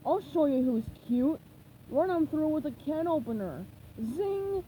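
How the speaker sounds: small villain sneering at a robot; Plankton's gloating threat. Acted. Tiny villain taunting a robot, sneering.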